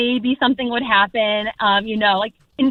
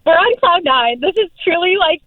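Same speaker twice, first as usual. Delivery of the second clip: on cloud nine, pitched up; real excitement; 4 semitones higher than usual. Real, not acted. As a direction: bubble over with happiness. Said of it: "we're just so excited".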